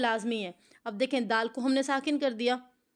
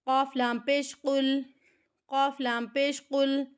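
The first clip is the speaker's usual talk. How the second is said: قاف لام پیش قل spelled out slowly, letter by letter; slow spelling drill; slower than usual. Shown as a demonstration. Teacher spelling out letters slowly for students. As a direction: spell it slowly for the class to repeat. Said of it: "یہ ہم سیکھتے ہیں".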